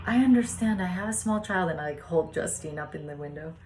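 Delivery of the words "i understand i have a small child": raised, high-pitched call, retold. Parent calling from the window to a frustrated father, retold calling out. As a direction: pitch it up and out to reach the street.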